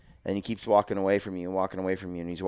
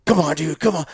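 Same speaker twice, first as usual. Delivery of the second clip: pleading; 7 semitones higher, 5 dB louder than usual. Retold or imitated. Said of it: "Jeff, he's like".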